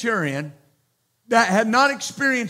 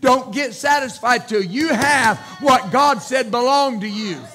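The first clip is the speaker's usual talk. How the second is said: raised, louder preaching exhortation; preaching shout; 3 semitones higher, 4 dB louder than usual. Real, not acted. Preacher urging the church, loud preaching shout. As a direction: call it out to the congregation with force.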